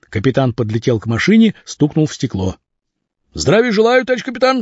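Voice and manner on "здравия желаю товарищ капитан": high startled soldierly greeting; pitched-up eager salute; exclaiming. A narrator's reading. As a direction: snap to attention and call it out. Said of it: "вскричал шофёр".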